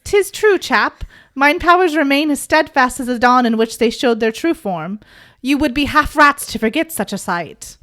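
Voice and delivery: lightly hammed archaic gentleman; old-timey gentleman. Podcaster voicing Simon in old dude style, mock formal. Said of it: "we're gonna do this in old dude".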